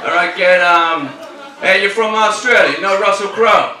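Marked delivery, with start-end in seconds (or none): 1.6-3.8 higher, louder naive questioner; mimicked American friend. American friend to the Australian, mimicked eager question. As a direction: imitate an eager, clueless questioner.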